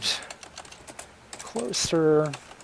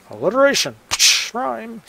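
excited aside; 9 semitones higher, 7 dB louder, faster than usual. Real, not acted. Pleased aside about own writing.

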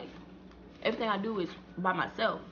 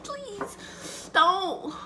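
higher, softer, tiny please; soft begging; 8 semitones higher, 3 dB quieter, much slower than usual. Retold or imitated. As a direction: plead small and scared. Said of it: "And I'm just like".

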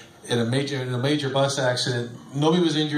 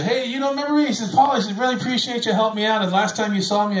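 grateful former patient; 9 semitones higher, 3 dB louder than usual. Retold or imitated. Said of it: "people would say".

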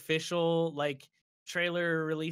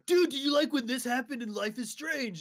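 higher, put-on voice of a careless fan; eager spoiler viewer; 10 semitones higher than usual. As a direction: blurt it out like a clueless dude. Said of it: "someone from my stream will be like".

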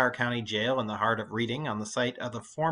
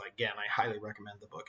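quick conspiratorial whisper; whispered aside; 2 semitones lower, 7 dB quieter, faster than usual. Real, not acted. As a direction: lean in and whisper the tip fast. Aside recommendation to students.

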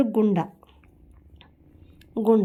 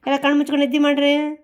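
higher, quick bedtime instruction; bedtime order to pets; 5 semitones higher, 3 dB louder, faster than usual. Real, not acted. Owner telling crying kittens to sleep, quick higher-pitched order. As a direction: tell the little ones to sleep, briskly.

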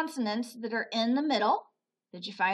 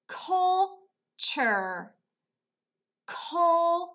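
slow blend; 6 semitones higher, 4 dB louder, much slower than usual. Shown as a demonstration. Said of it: "let's pronounce this syllable".

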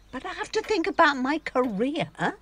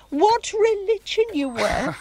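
teasing laugh; 9 semitones higher, 7 dB louder than usual. Acted.

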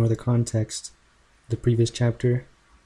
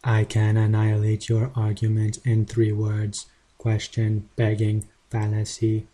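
robot voice; 3 dB quieter than usual. Pretend. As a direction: read it like a machine. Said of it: "I'll use a robot voice for his comments".

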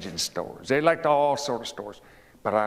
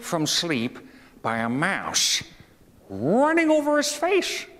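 lively read-aloud with big high lifts; storytelling to children; 10 semitones higher than usual. A narrator's reading. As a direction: tell it to wide-eyed boys. Reading a fable to boys.

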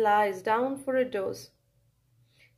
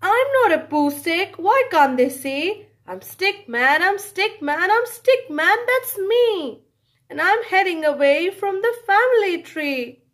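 higher, louder indignant stick figure; Stickman protesting; 5 semitones higher, 4 dB louder than usual. Acted. Stickman insists to the world who he is. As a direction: build the 'I'm stick man' each time higher.

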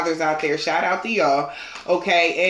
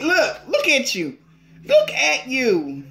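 teasing laugh; 5 semitones higher, slower than usual. Real, not acted.

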